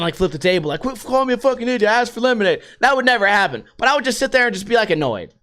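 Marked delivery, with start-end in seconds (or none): 0.8-2.6 hurried, slightly raised mock outrage; mock mad. Imagined diner snapping at rude waiter, mock mad. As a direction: pretend to blow up at a waiter. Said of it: "Not that I would get mad".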